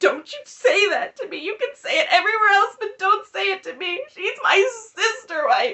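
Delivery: very high, sobbing, crying through the words. Retelling a reality show scene where someone breaks down: imitating someone sobbing. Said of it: "starts sobbing".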